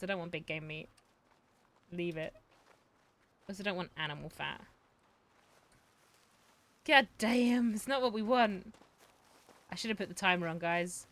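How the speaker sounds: ordinary talk, nothing marked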